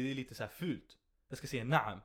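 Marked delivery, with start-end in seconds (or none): 1.6-2.0 a firm, dutiful "Naam" said like yes sir; respectful yes. Retold or imitated. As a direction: answer "Naam" like a soldier to an officer. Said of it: "Naam, det är inte bara ja".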